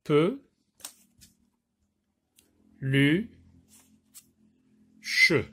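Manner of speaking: Peu, lu, che with long pauses between; one syllable, wait, the next; slow syllable count. Shown as a demonstration. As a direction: place each syllable like a box for children. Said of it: "les maisons syllabes".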